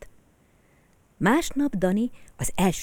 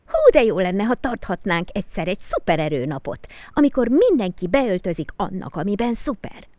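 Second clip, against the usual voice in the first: louder, gushing idea; enthusiastic; 4 semitones higher, 5 dB louder than usual. Acted. Peti proposing a superpower day, louder and gushing. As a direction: bubble over with excitement. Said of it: "lelkendezett Peti".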